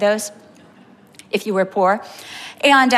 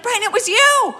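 amused telling; 11 semitones higher than usual. Retold or imitated. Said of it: "I'm like".

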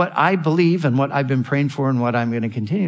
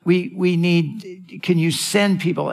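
pleading pastors; 3 semitones higher than usual. Retold or imitated. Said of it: "men who are pleading and saying".

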